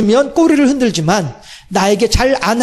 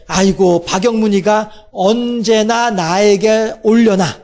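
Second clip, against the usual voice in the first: patient longing voice of God; 2 semitones lower, slower than usual. Acted.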